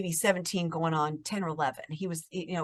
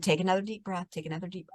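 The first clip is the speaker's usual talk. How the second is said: gently coaching a breath, softening; soft retold reassurance; calming; 5 dB quieter, faster than usual. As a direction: quietly repeat the soothing instruction. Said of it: "I was just trying to calm him down".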